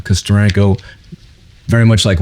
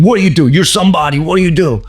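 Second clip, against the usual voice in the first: high, insistent questioning; Steranko impression; 8 semitones higher than usual. Comic artist quizzing a shy fan, insistent high voice. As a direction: put on an excitable high voice and press for an answer. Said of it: "And he's like".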